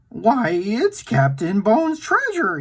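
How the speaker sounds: drawn-out excited cry at the find, slow; excited slow yell. Acted. Shaggy cries out on opening the treasure chest, slow excitement. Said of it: "he yelled".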